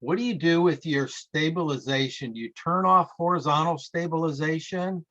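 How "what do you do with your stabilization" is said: ordinary talk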